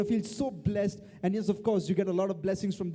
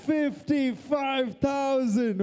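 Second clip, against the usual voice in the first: stretched bid call; 3 semitones higher, much slower than usual. Real, not acted.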